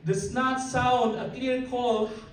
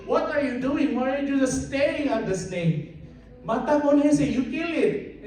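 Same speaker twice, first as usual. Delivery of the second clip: higher, louder mock demand; exasperated demand; 5 semitones higher, 3 dB louder than usual. Chabacano guy urging his friend, mock exasperated. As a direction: push him to kill it, half laughing.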